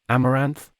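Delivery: a puzzled rising question. A narrator's reading. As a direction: repeat the strange name, unsure. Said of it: "Halding seemed puzzled and said".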